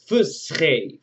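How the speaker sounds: fusche said as FOOS-khay with a rasped kh; teacher models the word fusche with a guttural kh; Egyptian verb modeled. Shown as a demonstration. Teacher demonstrates the Egyptian verb to the class. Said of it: "So, he writes".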